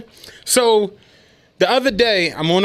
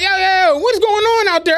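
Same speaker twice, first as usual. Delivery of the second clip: lightly voiced dispatcher; 10 semitones higher, faster than usual. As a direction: call in like a chummy boss.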